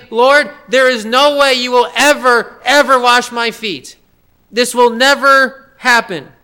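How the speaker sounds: strongest possible refusal. Retold or imitated. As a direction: flatly refuse as Peter, with force. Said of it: "He says this in the strongest possible way".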